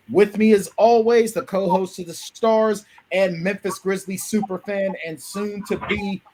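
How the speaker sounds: building hype introduction of co-host; announcer intro. Acted. Host presenting co-host to stream, announcer style. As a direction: roll out the co-host's intro like a ring announcer.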